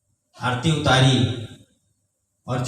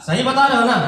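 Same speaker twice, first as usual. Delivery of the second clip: mother's disbelief; 8 semitones higher, 4 dB louder, faster than usual. Retold or imitated. Mother doubting again.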